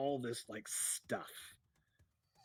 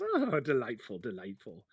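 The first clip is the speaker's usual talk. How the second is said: lightly voiced delighted tinkerer; a hint of fussy glee, falling away; Feldwin. Halfling charmed by the dragon, lightly voiced delight. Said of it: "and he goes".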